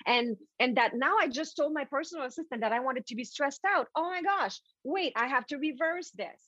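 hammed-up oh my gosh realisation; mock alarm. Acting panicked listener.

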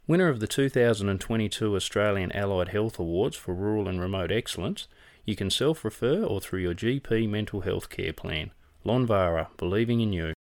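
smooth radio ad voice; ad read. Acted. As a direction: read it like a sponsor spot. Reads a sponsor ad.

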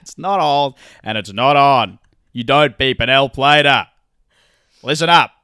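loud, punchy scolding; loud public reprimand; emphatic telling-off. Real, not acted. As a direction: lay down the law loudly. Emphatic telling-off of beeping drivers.

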